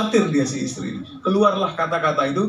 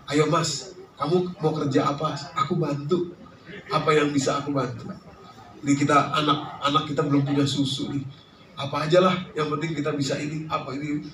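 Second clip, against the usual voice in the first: soft, coaxing wife; softly supportive, acted; gentle encouragement; 3 semitones lower, 6 dB quieter than usual. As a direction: offer your husband help, softly. Models wife gently encouraging husband.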